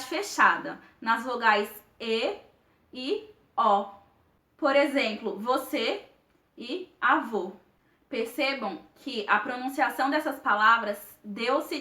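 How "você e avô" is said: "você e avô" with closed final ê and ô; closed vowels. Shown as a demonstration. Teacher illustrating the circumflex, closed vowels in "você e avô". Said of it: "de uma maneira fechada".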